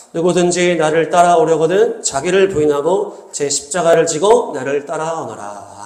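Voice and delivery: slow, measured Bible reading; formal recitation of scripture. Acted. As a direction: read the verse out to a congregation, unhurried. Reads scripture aloud to congregation.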